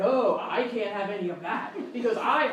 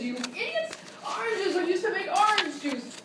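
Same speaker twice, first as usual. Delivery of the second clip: exasperated scolding; 5 semitones higher than usual. Acted. Host berating contestants.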